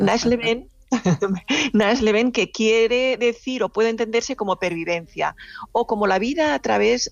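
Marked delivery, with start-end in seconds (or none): 0.0-0.7 "Nasleben" carefully attempted as a German word; tentative German pronunciation. Shown as a demonstration. Radio guest attempting a German word for listeners, "Nasleben" pronounced tentatively. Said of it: "a ver si la pronuncio bien". 1.7-2.3 "Nasleben" repeated as a careful German word; German pronunciation attempt. Shown as a demonstration. Radio guest repeating the German word for listeners, "Nasleben" carefully pronounced. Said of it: "a ver si la pronuncio bien".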